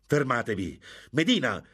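high, urgent loud shout. A narrator's reading. Don Cristobal to the duelling men, shouting. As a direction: shout to stop a fight. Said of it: "gridò".

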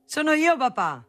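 high, light little answer. A narrator's reading. Son owning up to his father, light voice. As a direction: own up lightly, pitched high then dropping. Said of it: "rispose la nota voce leggera".

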